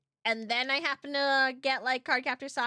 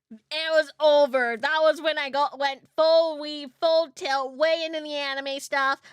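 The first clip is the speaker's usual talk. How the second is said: louder, building enthusiasm; excited; 6 dB louder than usual. Real, not acted. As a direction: ramp up the fangirl excitement. Excited rant about anime.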